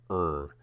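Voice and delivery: "er," with an r-coloured vowel as in tar; er sound. Shown as a demonstration. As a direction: say "er," like the end of tar. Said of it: "when I pronounce this rune like".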